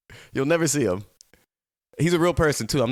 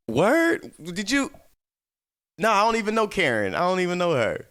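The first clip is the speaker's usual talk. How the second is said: mock surprise; 7 semitones higher, 4 dB louder than usual. Pretend chat with viewer.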